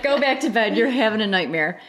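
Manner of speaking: laughing. Retold or imitated. Husband quoted, laughing.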